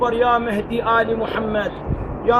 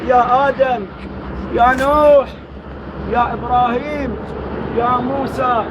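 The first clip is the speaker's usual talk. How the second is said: lamenting invocation. Acted. Invoking angels and prophets in lament.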